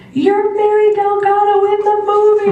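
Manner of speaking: high, sustained shriek of big news; excited scream. Retold or imitated. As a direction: imitate an agent screaming the good news. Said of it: "she screamed".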